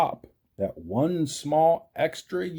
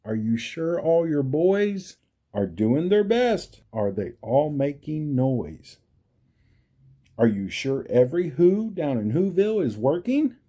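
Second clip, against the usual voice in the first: lightly raised, urgent mayor voice; a hint of a frantic mayor; worried mayor; 3 semitones higher than usual. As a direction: press the town to work. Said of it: "rushed the mayor".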